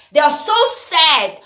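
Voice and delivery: slow, sarcastic "They are so sad", stretching "so"; mocking "so sad". Mocking people who cry on camera, slow and sarcastic. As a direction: drag out "so sad" in mock pity. Mocking crying posters' sadness.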